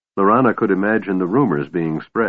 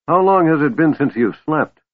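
firm, raised, stern question; 8 semitones higher, 3 dB louder than usual. A narrator's reading. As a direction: ask it like a strict elder. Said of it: "Flint asked sternly".

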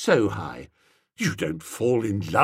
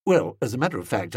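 usual speaking voice

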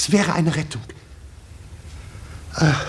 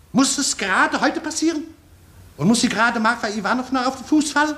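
exasperated, pitched much higher; angry scolding; 6 semitones higher than usual. Acted. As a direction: scold the fool in rising fury. Director scolds clumsy stagehand. (wütend schimpfend, deutlich höher)

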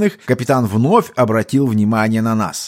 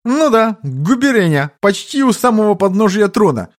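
elf's voice; 9 semitones higher than usual. A narrator's reading. Elf lying to the captain in a high voice. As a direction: spin a tall tale breezily.

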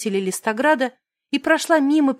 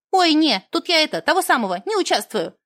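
голос гномки; 3 semitones higher than usual. Acted. Реплика гномки.

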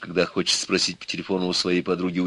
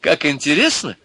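put-on high-pitched, eager girlish delight; amused delight; 8 semitones higher, 6 dB louder than usual. A narrator's reading. Milka amused by Ivan's rant, delighted. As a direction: egg him on with glee. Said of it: "Милка опять громко засмеялась".

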